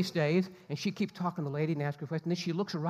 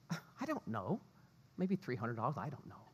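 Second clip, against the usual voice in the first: dismissive; 4 semitones lower, 8 dB quieter than usual. Retold or imitated. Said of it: "She goes".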